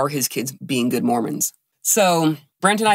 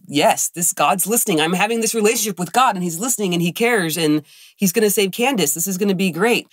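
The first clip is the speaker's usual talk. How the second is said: higher-pitched, excited rush of hope; hopeful and thrilled, pitch lifted; retold elation; 5 semitones higher than usual. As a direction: relive the thrill of an answered prayer. Retelling her hopeful elation at prayer.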